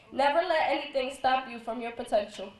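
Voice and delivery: normal talking voice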